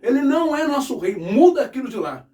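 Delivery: hammed-up furious complaint; mock angry Pharisees. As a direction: play the outraged priests banging on Pilate's door. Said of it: "vão bater lá na porta do, do Pilatos, assim".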